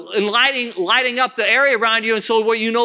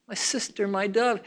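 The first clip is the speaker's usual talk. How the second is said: softly spoken endearment; tender address; 7 dB quieter than usual. Acted. Beloved talks to his bride, softly and tenderly. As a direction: drop to a gentle, loving softness. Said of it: "Look how he talks to us".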